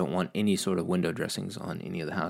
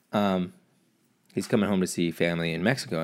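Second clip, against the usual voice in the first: ordinary delivery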